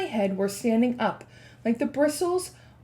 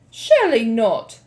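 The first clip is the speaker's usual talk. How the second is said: shouting; 8 dB louder than usual. Acted. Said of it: "the others shouted".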